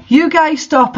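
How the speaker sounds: hammed-up angry outburst; angry shout. A narrator's reading. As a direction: shout them down in fake fury. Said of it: "I shouted angrily".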